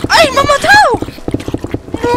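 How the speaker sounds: sudden high yelp; shouting. Real, not acted. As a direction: cry out in dismay. Dying in game, cries out.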